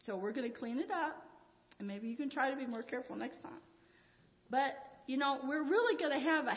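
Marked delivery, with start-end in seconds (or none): 0.0-3.6 gentle reassurance. Acted. Parent talking to a child after spilt milk, gentle. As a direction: reassure the child softly and evenly. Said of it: "The best way would be just say".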